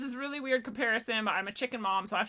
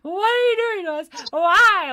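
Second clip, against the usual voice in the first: much higher, much louder squawking plea; screaming baby chickens; 10 semitones higher, 11 dB louder than usual. Retold or imitated. Chicken mom voicing her chicks screaming in the pen, much higher and louder. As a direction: voice the chicks yelling at their mom. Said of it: "they're like".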